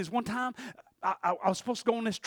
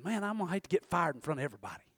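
nervous rush; 4 semitones lower, 7 dB quieter, faster than usual. Retold or imitated. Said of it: "I was thinking".

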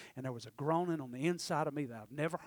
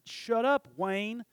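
mock snap; 5 semitones higher, 6 dB louder, much slower than usual. Retold outburst at a churchgoer.

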